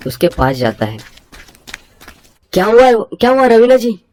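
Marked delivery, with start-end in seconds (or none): 2.5-4.0 alarmed concern. Acted. Man rushing to fallen neighbour asks high and alarmed. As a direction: rush to her, alarmed.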